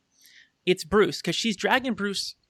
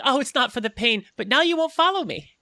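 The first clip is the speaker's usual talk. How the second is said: gleeful Harley voice; 5 semitones higher, 4 dB louder than usual. Acted.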